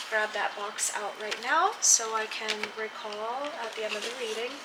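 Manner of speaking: talking while turned away; off mic. Real, not acted. Reaching away for a box.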